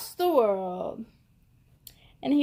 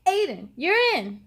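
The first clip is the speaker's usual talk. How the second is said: mild coach yell; 3 semitones higher, 5 dB louder than usual. Acted. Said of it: "he yelled".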